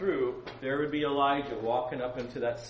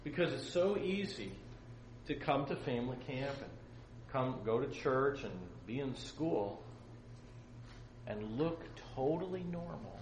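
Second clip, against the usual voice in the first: soft, halting, with long pauses; hushed solemn appeal; 10 dB quieter than usual. Real, not acted. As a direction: drop the volume and let each question sink in. Solemn closing appeal to listeners.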